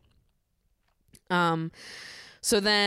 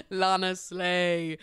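slow drawn-out praise; much slower than usual. Retold or imitated. Cheering on favourite islander.

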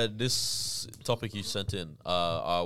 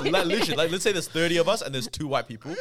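laughing; 5 semitones higher, 4 dB louder than usual. Real, not acted. Laughing while explaining.

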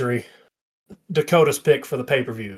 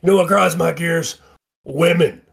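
light impression of a co-host, louder, higher; mock co-host griping, a bit louder; Dakota; 5 semitones higher, 4 dB louder than usual. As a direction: lightly put on a co-host's voice, pitched up. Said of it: "do my best Dakota impression".

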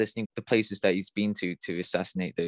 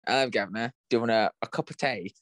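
put-on cliché British accent; faster than usual. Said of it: "two steps away from the whole".

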